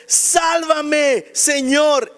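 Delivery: súplica alargada, lenta y algo más aguda; grito retenido. Retold or imitated. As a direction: alarga cada palabra como un clamor contenido. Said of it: "gritó". (clamor alargado, sin llegar al grito)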